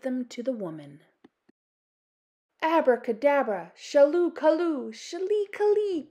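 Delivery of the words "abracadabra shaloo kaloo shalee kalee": croaked spell. Acted. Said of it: "croaked the old woman".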